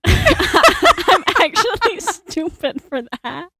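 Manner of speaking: helpless real laughter through the words; laughing at herself. Real, not acted. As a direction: laugh your way slowly through the admission. Laughing at her own blunder.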